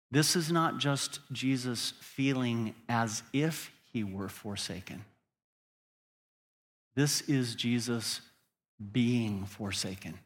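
deliberate, with pauses round "This is Jesus"; very clearly. Shown as a demonstration. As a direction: spell out the point, dropping low on "forsaken". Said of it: "I want to say it very clearly".

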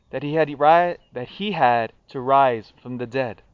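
measured solemn scripture reading; gospel reading. Acted. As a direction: read the Gospel aloud at Mass.

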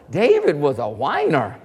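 low, hushed aside; quiet remark. Retold or imitated. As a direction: drop the voice on "David was a whiner". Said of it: "She said".

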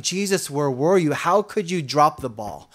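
lightly voiced grumbling at Jesus, rising complaint; whiny imitation of a griping believer. Complaining believer asking Jesus why he let it happen, mock grumbling. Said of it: "you'll be grumbling all unceasingly".

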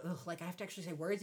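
low, soft and fast grumble; imitating a reluctant flirt; mock bored guy.

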